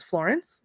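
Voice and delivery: "Florence" softly, with a questioning rise; questioning offer. Retold or imitated. Asking if she'd like some, "Florence" said as a soft question. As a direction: lift the end of "Florence" as a gentle offer. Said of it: "like, asking if she'd like some".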